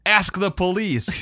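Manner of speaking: high, loud, drawn-out villain retort; mock supervillain proclamation; Ultron. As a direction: declare it slowly like a game boss. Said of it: "And Ultron says".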